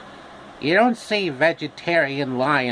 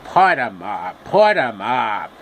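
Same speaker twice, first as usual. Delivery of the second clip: a touch lower, mock tough lion, the second one slow; lightly voiced cowardly lion picking a fight; half-hearted tough-guy lion dare; Phil Hartman Cowardly Lion; 3 semitones lower than usual. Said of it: "with the styling of Phil Hartman".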